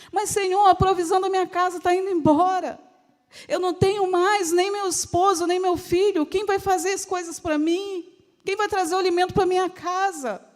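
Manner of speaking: acted desperation, mounting questions; pleading widow. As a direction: protest helplessly to the Lord.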